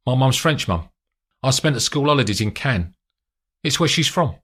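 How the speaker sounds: hint of an eager young agent; lightly voiced young agent. Mulgrove answers Gabby in car.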